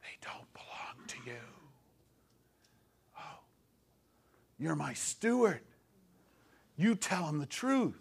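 hushed whisper of God speaking; the voice of God whispering softly; God's whisper. Retold or imitated. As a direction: barely breathe the words, soft and low. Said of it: "God whispers to me".

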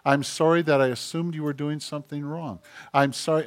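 soft, earnest sorry; acted contrition, hushed; sincere apology. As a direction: apologize quietly to a child and mean it. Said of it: "and really mean it".

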